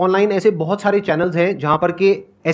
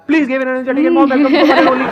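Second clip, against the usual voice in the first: slow, hammed-up host intro, higher and louder; mock announcer; 4 semitones higher, 4 dB louder, much slower than usual. Host mocking his own rote welcome line, announcer voice. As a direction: stretch it out like a stage announcer, laughing at yourself. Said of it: "जैसे मैं नहीं बोलता यहाँ पे जब भी कोई आता है".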